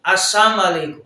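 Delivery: السلام علیکم clipped to "asam alek"; mispronounced greeting; wrong slurred salam. Shown as a demonstration. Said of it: "آسام موت کو کہتے ہیں".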